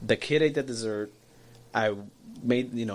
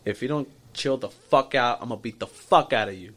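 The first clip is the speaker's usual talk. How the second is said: yelling. Retold or imitated. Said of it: "yelled at the top of my lungs".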